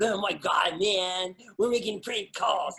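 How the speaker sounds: put-on teen boy voice. Showing a sketch character, a teenage boy who makes prank calls, teenage boy prank-caller voice. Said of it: "And he talked like this".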